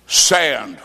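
dry mock enthusiasm; deadpan fake excitement; sarcastic. Preacher mocking the dull desert, dry sarcasm.

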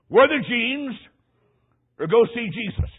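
loud, high comic ultimatum, pause before the threat; mock motherly ultimatum. Mother gives boy an ultimatum.

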